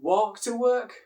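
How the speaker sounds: exaggerated teacher voice, pausing before key words; teacher's questioning voice. Shown as a demonstration. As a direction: spell it out slowly for learners. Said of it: "use some miming, like saying".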